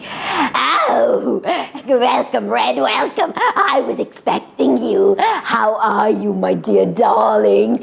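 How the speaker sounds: lightly voiced wolf faking sweetness, with a chuckle; a hint of a sly wolf playing granny; wolf as grandma. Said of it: "pretend to be Red Riding Hood's grandmother".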